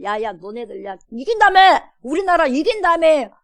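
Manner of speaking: taunting yell at captives, rising loud; mocking jeer. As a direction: jeer at the prisoners, sneering. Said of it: "이 포로들을 놀리는 거예요". (포로들을 조롱하며 외치는 비웃음)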